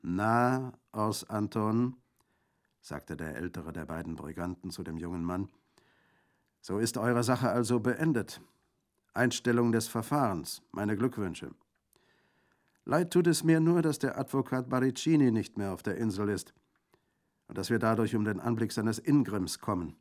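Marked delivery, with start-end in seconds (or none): 0.0-1.9 high, loud greeting to a friend; hearty greeting. A narrator's reading. Bandit hailing young Orso, hearty greeting. 6.6-19.9 high, loud bandit voice; hearty bandit. A narrator's reading. Bandit congratulating Orso on his case, hearty. Older bandit's speech in story.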